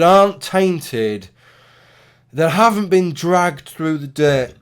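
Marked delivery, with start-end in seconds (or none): 2.3-4.5 words broken by a burp. Real, not acted. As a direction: burp while speaking. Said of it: "pardon me, I'm burping".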